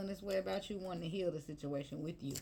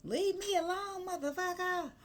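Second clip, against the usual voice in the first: high, louder whiny retort; mock brush-off; 3 dB louder, slower than usual. Reader rebuffing a returning ex, high mock whine. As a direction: push them off in a hammed-up whine. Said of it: "And I'm like".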